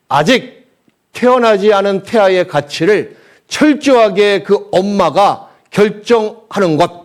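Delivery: preach. Real, not acted. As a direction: drive each phrase home slowly and loudly. (힘주어 느리게 설교하는 목소리)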